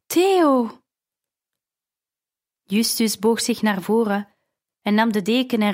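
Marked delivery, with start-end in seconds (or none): 0.1-0.8 anguished louder cry. Acted. Realising Theo is lost son.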